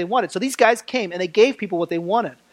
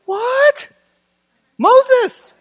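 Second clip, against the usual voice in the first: high, loud call to the room; 4 dB louder than usual. Real, not acted. Preacher calling out to his congregation, loud and high. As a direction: pull the answer out of the crowd.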